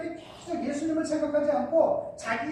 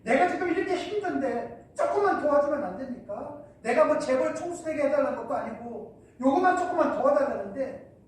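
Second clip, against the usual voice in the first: imitated complaining prayer. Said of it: "할 때가 많죠".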